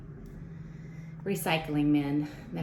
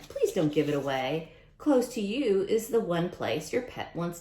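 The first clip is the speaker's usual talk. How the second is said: lively storybook read-aloud voice; reading to children. Acted. Teacher reading a rhyming book to kids, storybook voice. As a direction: read it out to the class with bounce.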